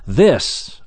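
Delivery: "This" set apart with stress; emphatic THIS. Acted. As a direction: punch "This" as a word on its own. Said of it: "again, emphasis".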